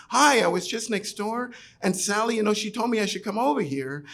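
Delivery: chirpy door-to-door pitch; sales pitch. Retold or imitated.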